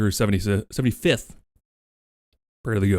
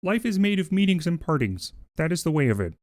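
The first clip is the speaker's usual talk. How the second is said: Kermit voice; 5 semitones higher than usual. Retold or imitated. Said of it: "Kermit's a little further down the throat".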